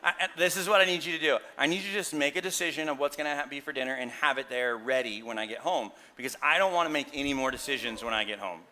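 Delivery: quick, bossy instructions to his wife; lightly played bossy husband; condescending tone. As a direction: rattle off demands like a boss. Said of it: "You hearing the tone?".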